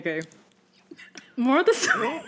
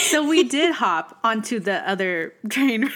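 laughing; slower than usual. Real, not acted. Laughing retelling of the trip.

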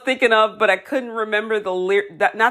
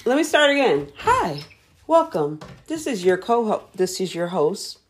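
a second go at the upbeat welcome; host intro retake; 2 semitones higher than usual. Acted. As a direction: try the cheery intro once more. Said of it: "Start over".

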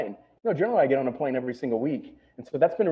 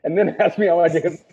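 snarky New York retort; 7 semitones higher, 4 dB louder than usual. Retold or imitated. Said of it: "I was like".

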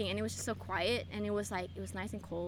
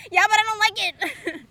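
whiny complaint; 8 semitones higher, 9 dB louder than usual. Retold or imitated. Retelling her jealous demand.

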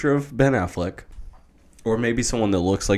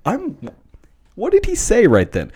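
mock awestruck listener; 7 semitones higher, 6 dB louder than usual. Mimicking fawning listeners of powerful people.

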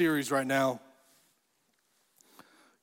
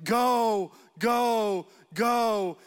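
drawn-out, higher mock cheer; mild retold yell, raised in pitch; imitated crowd yell; 4 semitones higher, much slower than usual. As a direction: imitate a crowd urging a player on. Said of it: "the crowd was yelling".

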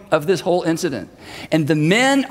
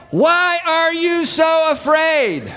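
laughing shout; 9 semitones higher, much slower than usual. Retold or imitated. Jesus teasing panicked disciples, laughing shout. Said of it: "I think he's grinning".

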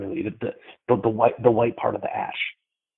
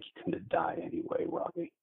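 mocking; 9 semitones higher, 5 dB quieter than usual. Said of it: "his tone was super kinda mocking".

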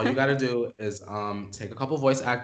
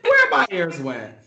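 high, loud, cracking up; shrieking it out mid-laugh; 13 semitones higher, 7 dB louder, slower than usual. Real, not acted. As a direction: tease through helpless laughter. Cracking up while repeating teasing line.

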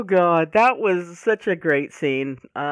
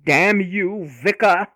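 mock curse; 5 dB louder, slower than usual. Mock cursing the vicar.

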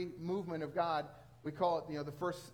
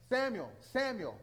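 slow, raised call of a name; higher, measured calling voice; voice calling Samuel; 4 semitones higher, 4 dB louder than usual. Acted. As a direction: call the sleeping boy twice, drawn out. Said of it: "hears the, the voice".

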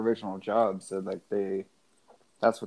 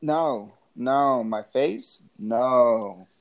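bad acting; 4 dB louder, much slower than usual. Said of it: "the worst acting ever".

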